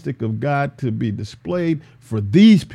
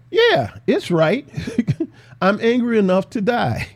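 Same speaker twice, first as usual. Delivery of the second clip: defiant Jonah; 6 semitones higher than usual. Acted. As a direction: snap back like a stubborn child. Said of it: "Jonah re-, responded".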